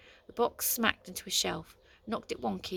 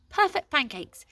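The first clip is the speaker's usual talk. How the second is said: excited find; 11 semitones higher, 7 dB louder than usual. A narrator's reading. Finding the book excitedly.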